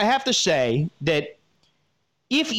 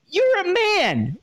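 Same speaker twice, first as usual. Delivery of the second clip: emphatic scolding; 11 semitones higher, slower than usual. Real, not acted. Vlogger lecturing letter writer.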